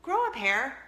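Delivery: "Grow a pair?" asked back with a rising, confused tune; puzzled echo. Retold or imitated. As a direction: echo it back like a baffled daughter. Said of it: "she's like".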